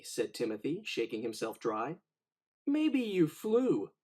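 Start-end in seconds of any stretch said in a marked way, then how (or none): 2.7-3.9 higher, louder, slow teasing crow; slow, raised wisecracking crow; joking crow. Acted. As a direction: drawl out a cheeky joke. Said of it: "a crow joked".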